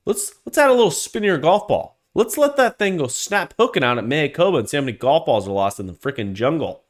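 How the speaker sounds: heated, rising rant that keeps building; fired-up rant. Real, not acted. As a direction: let the anger boil over, then drop off at the end. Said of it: "I got a little fired up".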